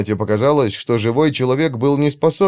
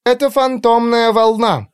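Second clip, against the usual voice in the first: raised voice; 13 semitones higher than usual. Acted. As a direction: say it heatedly. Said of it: "на повышенных тонах". (на повышенных тонах)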